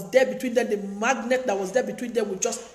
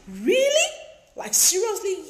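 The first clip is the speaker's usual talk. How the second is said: high, squeaky mock disbelief; shocked disbelief; 8 semitones higher than usual. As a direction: gasp it out like you can't believe it. Listener's shocked reaction acted out.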